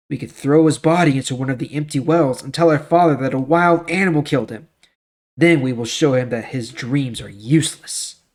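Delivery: steady, measured storybook narration; Bible story reading. A narrator's reading. Reading Joseph's story to the class, in even storyteller tones. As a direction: read the scripture story to listeners.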